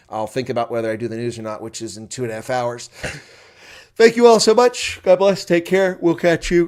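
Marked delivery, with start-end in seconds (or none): 3.9-6.6 very loud, worn-out voice, yawning. A streamer signing off to viewers after a long day, yawning, tired. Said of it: "Sorry, I'm tired, yawning".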